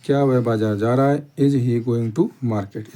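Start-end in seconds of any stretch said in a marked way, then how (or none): 1.4-2.9 very slow, word by word; slow dictation. Shown as a demonstration. Teacher dictating the answer to students, very slow. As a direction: spell it out slowly for the class to copy. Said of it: "teacher dictates model sentence".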